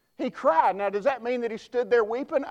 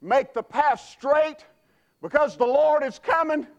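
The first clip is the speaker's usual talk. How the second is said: crying out; 5 semitones higher, 4 dB louder than usual. Acted. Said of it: "he's been crying".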